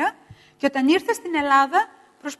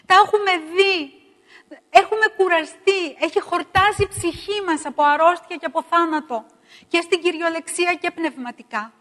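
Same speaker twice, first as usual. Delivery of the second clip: louder, higher pained preaching; loud lament from the pulpit; weary outcry; 4 semitones higher, 4 dB louder than usual. Acted. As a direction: cry out the weariness of the people. Climax of lament.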